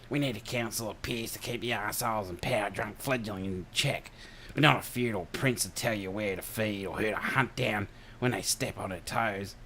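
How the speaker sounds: put-on indignant broad Ocker accent; ranting Australian Ocker accent. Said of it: "doing the Arnie Shelley imp-, impersonation".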